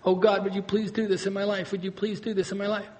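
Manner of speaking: understated, softly pleading prayer; imitation of a begging prayer; mock pleading. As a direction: plead quietly with God, only half in earnest. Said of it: "we begin to plead with God".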